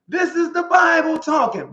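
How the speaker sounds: high, loud preaching shout; preacher shouting over the congregation. Real, not acted. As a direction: proclaim it with full force. Preacher emphasizing scripture.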